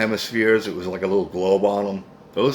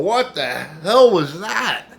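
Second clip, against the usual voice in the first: laughing disbelief; 8 semitones higher, 4 dB louder, much slower than usual. Retold or imitated. Friends laughing walking past.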